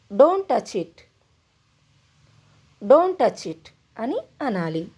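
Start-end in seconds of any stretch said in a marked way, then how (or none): 2.8-3.7 slow teaching repeat. Shown as a demonstration. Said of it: "దాన్ని ముట్టుకోవద్దు అనాలంటే ఇంగ్లీష్లో".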